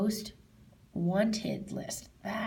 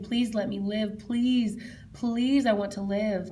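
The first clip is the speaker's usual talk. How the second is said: re-enacted plea, louder on each please; retold pleading prayer; 4 dB louder, slower than usual. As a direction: beg as in a remembered prayer. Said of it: "I was praying".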